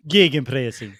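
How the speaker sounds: mock German accent, rolled R; hammed-up foreign pronunciation. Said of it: "is that your German accent".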